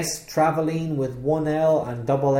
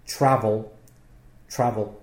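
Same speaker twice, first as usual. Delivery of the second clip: travel with the stress on trav, said twice; stress on first syllable; 3 semitones lower than usual. Shown as a demonstration. Teacher explaining the American spelling, stress on trav in travel. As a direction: stress the opening syllable of travel each time. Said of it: "The stress is on the first syllable".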